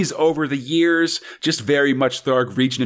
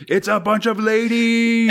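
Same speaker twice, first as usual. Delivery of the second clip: excited; 9 semitones higher than usual. Acted. Excited reveal of ladies.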